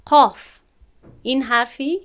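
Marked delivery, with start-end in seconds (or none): 0.0-0.6 قاف loud, higher, with a heavy full alif; heavy qaf. Shown as a demonstration. Teacher giving an example of a heavy letter. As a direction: say قاف with a thick full vowel. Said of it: "مثال".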